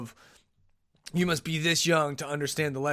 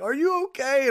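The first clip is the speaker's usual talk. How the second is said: laughing concern; 11 semitones higher, 4 dB louder than usual. Retold or imitated. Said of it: "laughing and like".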